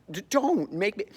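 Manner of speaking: acting out a flustered protest; stammered protest. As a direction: plead and get cut off. Acted Christine protesting, cut off.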